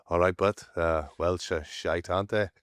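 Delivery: a light, lightly put-on Welsh accent, slowing on the middle line; imitating a Welsh stranger in a mild Welsh accent. Stranger on the train teasing about Welsh rugby, in a light Welsh accent. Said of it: "That's my Welsh accent".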